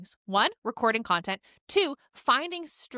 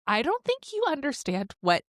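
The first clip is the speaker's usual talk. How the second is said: teary; 3 semitones higher than usual. Real, not acted. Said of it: "are you crying?".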